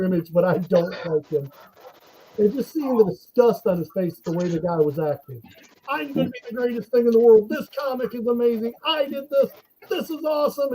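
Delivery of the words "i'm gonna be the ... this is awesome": mock arrogance. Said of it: "so over the top".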